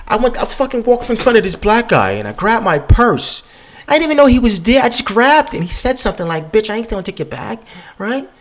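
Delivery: high put-on white woman voice; mock white woman. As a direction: pitch way up to parody a nervous white woman. Imitating a white woman's story.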